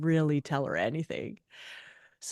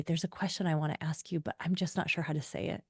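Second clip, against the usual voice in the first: hesitant; 6 dB quieter, faster than usual. Retold or imitated. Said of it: "he says to me".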